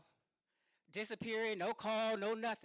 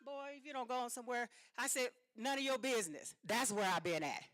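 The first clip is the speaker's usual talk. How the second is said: defiant brush-off; 4 semitones higher, 3 dB louder than usual. Retold or imitated. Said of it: "I was like".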